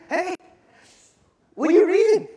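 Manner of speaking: high, loud playful shout; calling out. Acted. Philip running alongside the chariot, calling out. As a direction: holler up to someone riding past.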